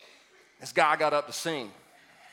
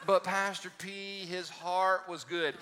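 pleading church member; 3 semitones higher, slower than usual. Retold or imitated. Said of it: "somebody that goes".

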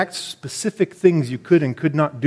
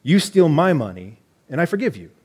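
playful mock British accent, lightly done; a hint of a posh British reading voice. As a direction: read C S Lewis in a hammed-up British accent. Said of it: "you gotta read this with a British accent".

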